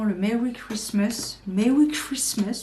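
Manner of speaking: slow English with a heavy French accent; clumsy French-accented English; franglais accent. Shown as a demonstration. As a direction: say Merry Christmas the French way, rolling it slowly. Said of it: "mon accent franglais absolument, euh, merdique".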